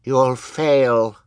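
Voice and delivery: put-on high-pitched, defiant little child; Sunny. A narrator's reading. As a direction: defy the villain in a child voice. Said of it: "Sunny said".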